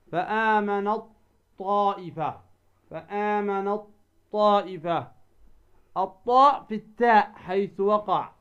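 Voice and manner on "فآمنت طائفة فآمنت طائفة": "فآمنت طائفة" as fa-aamanaT-Taa'ifa; ta merged into emphatic ta. Shown as a demonstration. Teacher repeating another example, فآمنت طائفة with doubled heavy ط. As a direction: swallow the ت of فآمنت into a held ط. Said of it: "تدغم التاء في الطاء".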